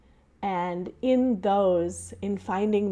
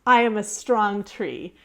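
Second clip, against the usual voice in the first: said out loud; 2 semitones higher, 6 dB louder than usual. Retold or imitated. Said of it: "they say out loud".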